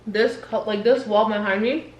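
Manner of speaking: talking with a mouthful of food; words round a bite of food; mouth full. Real, not acted. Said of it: "sorry, I got food in my mouth".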